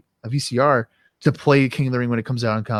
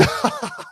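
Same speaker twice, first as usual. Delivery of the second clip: high laugh; 6 dB quieter than usual. Real, not acted. Host laughing at his own heel joke, high laugh. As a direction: cackle.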